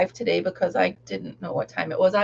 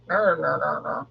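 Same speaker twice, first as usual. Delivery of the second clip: silly ner noises; 4 semitones lower than usual. Pretend. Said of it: "I sound like Al".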